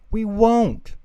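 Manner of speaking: put-on high eager toddler chorus; promising baby voice. A narrator's reading. Babies promising Angelica, high eager toddler voice. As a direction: promise sweetly. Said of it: "the babies promised again".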